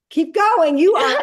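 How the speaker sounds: mocking laugh at the fake cop; laughing taunt. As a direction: laugh as you call his bluff. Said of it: "mocking the fake cop".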